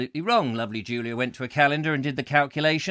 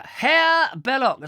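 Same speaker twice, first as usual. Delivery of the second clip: high, loud, stretched German-style name; mock German; 10 semitones higher, 5 dB louder, slower than usual. Presenter misnaming an author, mock German accent. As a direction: announce the name with a German flourish. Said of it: "He's not German".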